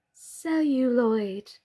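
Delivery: slow, light and calm. Acted. Birdie calmly accepting her fate, light and calm. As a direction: say it gently, at peace. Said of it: "in her light, calm voice".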